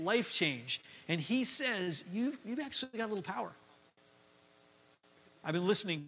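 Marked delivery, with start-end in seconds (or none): 2.1-3.5 sincere compliment. Retold or imitated. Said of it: "much more of a, of a compliment".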